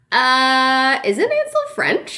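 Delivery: drawn-out uh, then very high question; mock puzzlement. Reader spotting a continuity error, mock high-pitched puzzlement. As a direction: query it in a high, incredulous voice.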